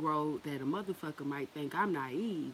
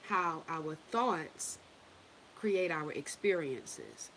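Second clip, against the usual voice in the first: slow teaching; much slower than usual. Shown as a demonstration.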